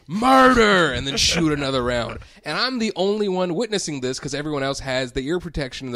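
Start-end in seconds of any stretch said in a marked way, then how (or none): 0.1-0.9 much higher, louder imitation yell; imitated yell. Retelling the gun range shooter before the next round, high yell. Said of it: "and he would yell".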